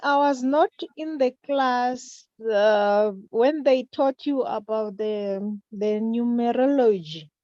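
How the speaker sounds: speaking up to be heard; to someone hard of hearing. Real, not acted. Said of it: "Can you speak louder".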